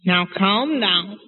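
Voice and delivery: slow, drawn-out soothing words; lightly acted father calming his wife; Papa calming Mama. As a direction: stretch it out to settle her down. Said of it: "Let's be Papa".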